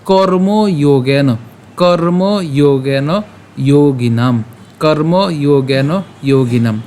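"কর্মযোগেন যোগিনাম" slowly, long o in each word; pronunciation demo. Shown as a demonstration. Teacher models the next words for learners, slow drawn-out "কর্মযোগেন যোগিনাম". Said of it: "উচ্চারণটা কেমন হচ্ছে".

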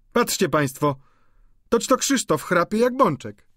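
high mocking maid's exclamation; amused maid. A narrator's reading. Maid laughing at snoring Christophe, mocking. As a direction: tease the snoring servant.

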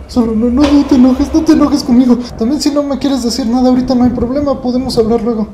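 placating. Real, not acted. Vlogger placating his dog, high and coaxing.

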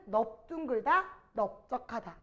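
넓둥글다 and 넓적하다 both opened with "neop"; pronunciation demo. Shown as a demonstration. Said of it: "이렇게 하는 거예요".

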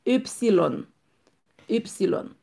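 upsilon with a high first syllable, falling at the end; German letter name. Shown as a demonstration. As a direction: model upsilon clearly for learners. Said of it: "ou di upsilon". (upsilon an alman, byen pwononse)

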